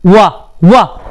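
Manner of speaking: वा sounded alone with an opening w; teacherly, separated repeats of वा; demonstrated pronunciation. Shown as a demonstration. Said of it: "pronunciation देखो". (वा का उच्चारण, अलग-अलग दोहराकर)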